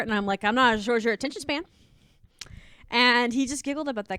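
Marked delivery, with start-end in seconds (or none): 0.4-1.6 quick sassy retort; snappy comeback. Retold or imitated. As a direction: snap it back fast. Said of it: "I wasn't afraid to snap back".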